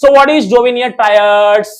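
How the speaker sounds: slow, deliberate dictation; dictating. Shown as a demonstration. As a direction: spell out the question for notes. Dictating exam question slowly. (नोट्स के लिए धीरे-धीरे बोलना)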